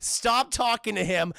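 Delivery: loud, slow barked orders, laughing; urging shout. Retold or imitated. Bruce urging in his ear.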